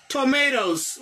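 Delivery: tomatoes, said slowly and clearly with a tapped t; model pronunciation. Shown as a demonstration. Teacher modelling the English word tomatoes. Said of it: "Ou e kòman pwononse".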